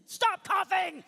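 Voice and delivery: very high, loud imitated yell; mock-loving scream. Wife yelling at her husband across a Walmart aisle, screaming. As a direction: shriek it as a furious command. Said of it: "she very lovingly said".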